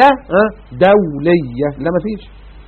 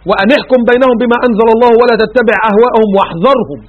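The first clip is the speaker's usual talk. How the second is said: Quran recitation; 2 semitones higher than usual. Acted. Recites verse.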